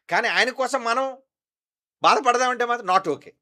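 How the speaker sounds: high, loud fervent preaching; full-force preaching. Acted. Pastor insisting to the congregation, loud preaching. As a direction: drive the point home to the church.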